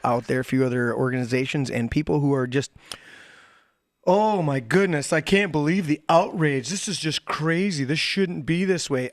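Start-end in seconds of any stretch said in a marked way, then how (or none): 4.1-9.1 mock outrage. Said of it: "you're overacting".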